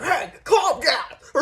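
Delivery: mock them through a laugh; mocking calm down, laughing. Mocking people who tell her to calm down, laughing. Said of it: "they're like".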